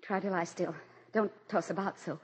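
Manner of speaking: put-on soft lulling comfort to the sick boy; calm him gently; tender soothing. Mother soothing feverish son.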